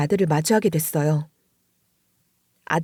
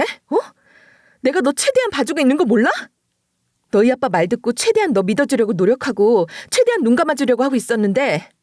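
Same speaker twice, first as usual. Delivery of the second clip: put-on higher, rising angry scolding of a teenager; scolding her son; 4 semitones higher than usual. Mother berating son over falling grades, angry scolding. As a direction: tear into him about his grades. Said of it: "야단을 좀 심하게 친 거예요".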